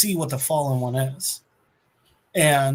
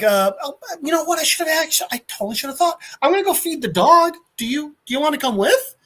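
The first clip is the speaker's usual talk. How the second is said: goofy high Ghost Rider voice; 11 semitones higher, faster than usual. Retold or imitated. Ghost Rider rambling to young Thanos.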